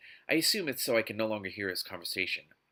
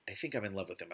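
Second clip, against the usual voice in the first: softer, low-key confession; muttered; 4 semitones lower, 7 dB quieter, faster than usual. A narrator's reading. Anna confessing love to her mother, softly muttered. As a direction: mutter it like a hard admission. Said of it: "I mutter".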